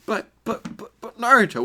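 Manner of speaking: high pleading stammer; pleading girls. Acted. Girls pleading with Naruto, high whiny stammer. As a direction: whine his name high.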